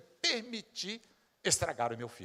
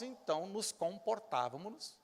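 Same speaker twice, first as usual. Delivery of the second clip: ordinary talk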